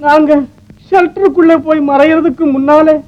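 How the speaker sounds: tearful, voice cracking at the end; telling of the bombs through rising tears; sobbing account. Acted. Recounting the bombing in tears. (விம்மலுடன் சொல்லுதல்)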